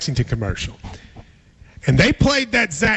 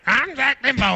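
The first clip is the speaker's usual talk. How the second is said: mock ad voice breaking in, pitched up; higher imitated campaign-ad intro; Zach Dimbo; 4 semitones higher than usual. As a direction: imitate a candidate's tagline jolting a dozer. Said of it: "I'd hear".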